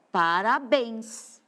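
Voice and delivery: "parabéns" slowly, leaning on final BÉNS; teacher marking BÉNS in "parabéns"; stress on BÉNS. Shown as a demonstration. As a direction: draw out "para-BÉNS" to show the strong syllable. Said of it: "Esse bens é forte".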